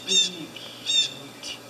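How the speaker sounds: high, slow cooing over cuteness. Real, not acted. Cooing over cute kids photo.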